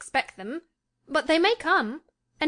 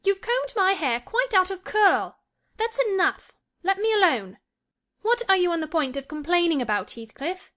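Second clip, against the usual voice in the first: petulant; 9 semitones higher than usual. A narrator's reading. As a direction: complain sharply, irritated. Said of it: "she added petulantly".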